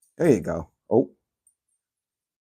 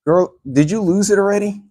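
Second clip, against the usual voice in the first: pitched way up, scolding the dog playfully; high teasing dog talk; 10 semitones higher, 5 dB louder than usual. Real, not acted. Teasing the dog who lost toy.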